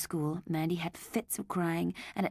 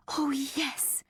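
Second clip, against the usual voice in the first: high whispered eager yes; light up with hope; excited cry; 9 semitones higher than usual. A narrator's reading. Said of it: "she cried".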